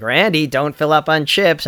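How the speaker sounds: lightly voiced mock-mom warning, drawn out; a hint of a slow motherly scolding. Friend teasing Randy out in L A, mock mother. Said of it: "like, a mock mother voice".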